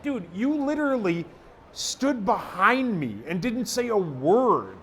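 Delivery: high, drawn-out exasperated protest; retold indignant rebuke. Telling off a buddy who claims he did it, indignant retold protest. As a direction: stretch each phrase in mock disbelief.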